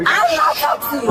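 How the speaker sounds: angry refusal. Real, not acted. Arguing with police.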